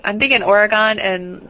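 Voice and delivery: Oregon said OR-uh-gahn; Oregon with a long open gahn ending; Midwestern Oregon. Real, not acted. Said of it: "How did you just pronounce that?".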